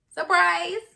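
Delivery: high, loud "surprise"; mock surprise announcement. Storyteller revealing who walked in behind mom, mock surprise. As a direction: announce it like a big, jarring reveal.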